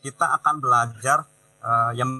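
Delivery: choppy audio cutting out; bad connection. Real, not acted. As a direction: voice breaking up over a bad line. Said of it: "Suaranya putus-putus".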